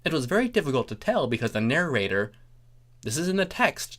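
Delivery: plain reading voice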